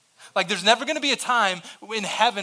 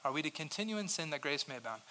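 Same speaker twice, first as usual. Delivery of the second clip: quiet repeat; 3 semitones lower, 12 dB quieter, faster than usual. Acted. Repeats question much softer.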